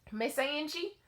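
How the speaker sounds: put-on high, sweet Southern child voice; little boy voice. Little boy asking his dance teacher, high child voice. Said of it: "I have to do his voice".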